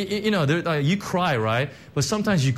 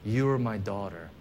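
softer, lower, tender; voice of heaven; 5 semitones lower, 5 dB quieter than usual. Pretend. Pastor voicing God's words over the congregation, tender and soft. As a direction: speak as God to his child. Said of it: "the thunder of heaven ... that says".

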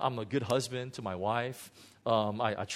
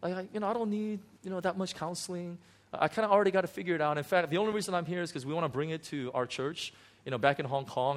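cocky brush-off; 4 semitones higher, faster than usual. Retold or imitated. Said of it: "I walked in and says".

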